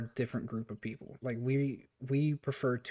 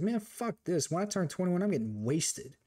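mock defiant; 5 semitones higher than usual. Retold rebellious reaction to rules.

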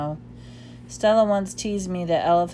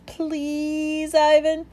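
put-on high, fast eager pleading child; pleading little elephant; 10 semitones higher, much slower than usual. A narrator's reading. Ruby pleading for a story, high child voice.

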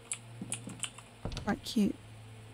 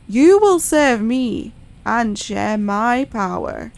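sinister alien master; 5 dB louder than usual. Acted. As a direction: speak as a dark master claiming his servant. Alien master speaking to Teddy.

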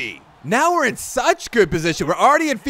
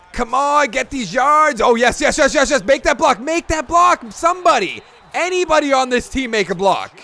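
high, loud rising yells; excited cheering; 4 semitones higher, 3 dB louder than usual. Real, not acted. Gamer yelling at his teammates to make a block, excited and pleading. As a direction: plead with the team at full voice.

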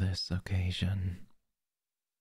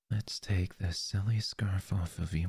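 breathy close-mic whisper. Acted. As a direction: whisper it right into the ear. Whispered roleplay.

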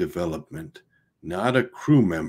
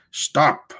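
sharp command; 7 semitones higher, 4 dB louder than usual. A narrator's reading. Captain commands halt.

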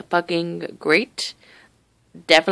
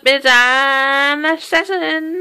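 high, drawn-out greeting cracking at the end; real voice crack while calling out high; 7 semitones higher, 4 dB louder, much slower than usual. Real, not acted. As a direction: let the voice crack on a stretched high note. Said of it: "My voice cracked there".

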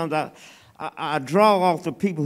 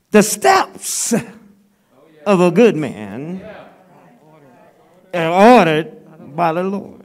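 louder, measured proclamation of the verse; solemn scripture reading; 7 dB louder, slower than usual. Acted. Preacher reading the psalm to the congregation, proclaiming loudly. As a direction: ring the verse out to the church.

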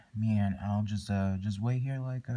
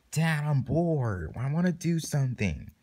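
put-on higher, whiny bored kid; bored child; 3 semitones higher than usual. Bored kid to Dad in line, complaining. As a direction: pester Dad in a raised, complaining voice.

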